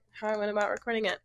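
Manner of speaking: quick mumbled repeat. Shown as a demonstration. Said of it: "the background of this song".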